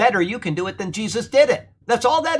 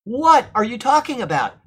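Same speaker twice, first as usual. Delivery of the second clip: higher-pitched, dismayed challenge; distressed disbelief; 5 semitones higher, 4 dB louder than usual. Acted. Church planter to his straying converts, distressed disbelief. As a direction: voice a preacher's acted dismay. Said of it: "all he can do is just mourn".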